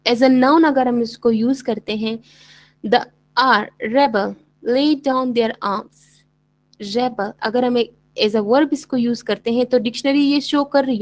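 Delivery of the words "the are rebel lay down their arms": slow example sentence with REbel stressed on the first part. Shown as a demonstration. Teacher demonstrates the noun rebel, stress on first syllable. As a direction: lean on RE in रेबल. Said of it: "अब मिसाल के तौर पर रेबल".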